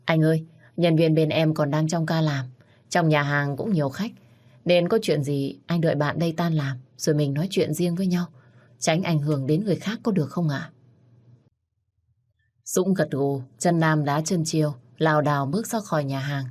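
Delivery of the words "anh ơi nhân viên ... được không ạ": gentle polite. Acted. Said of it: "sau đó nhỏ nhẹ".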